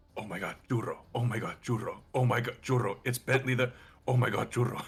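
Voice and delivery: whispered, hushed. Playing a character speaking to an ally at a turn: hushed whisper. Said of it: "in a hushed whisper".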